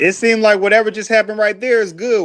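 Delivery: choppy breaking-up audio; glitchy lagging connection; buffering stutter. Real, not acted. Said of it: "that mug just changed".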